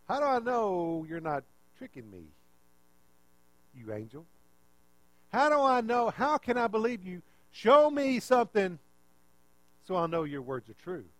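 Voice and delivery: acted-out disbelief, rising in pitch; skeptical demand. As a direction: push back insistently, demanding proof. Zechariah's paraphrased skeptical challenge to angel.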